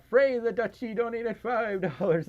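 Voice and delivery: high-pitched with a touch of wobble; slight accidental vibrato. Real, not acted. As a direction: let a light vibrato slip into the announcement. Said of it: "I had, I had a vib-, vibrato going for a second".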